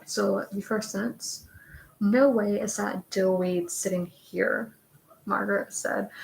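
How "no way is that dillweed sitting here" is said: lightly put-on Valley Girl accent, slowed; a slow, drawn-out Valley Girl accent. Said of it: "like, Valley Girl accent".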